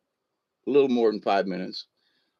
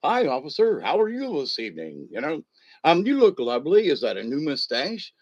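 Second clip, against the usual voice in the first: lightly put-on sweet talk to an officer; butter up the cop with swooping, singsong politeness; in character. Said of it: "you go into a character".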